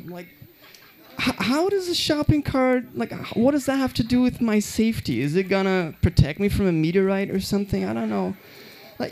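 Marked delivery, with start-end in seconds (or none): 1.2-8.3 incredulous high voice. Retold or imitated. Incredulous self quoted.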